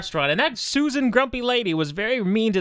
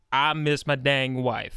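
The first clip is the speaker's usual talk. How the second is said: mock Rock; 7 semitones lower, 3 dB quieter, slower than usual. Voicing The Rock on phone.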